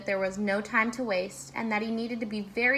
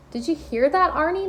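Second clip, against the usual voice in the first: loud, high call; 6 semitones higher, 8 dB louder than usual. A narrator's reading. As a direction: shout it down the line. Baker calls into the phone.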